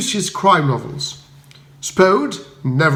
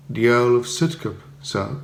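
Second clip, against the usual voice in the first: shocked butler; 4 semitones lower, 3 dB quieter than usual. A narrator's reading. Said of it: "a perceptible touch of shock in his voice".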